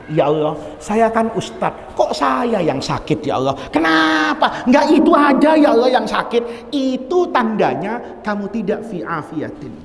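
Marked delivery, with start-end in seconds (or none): 0.1-6.7 whiny protest rising to a shout; hammed-up lament building to a shout; mock complaint. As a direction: complain to God like a sulking ustadz. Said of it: "tapi kamu bertanya".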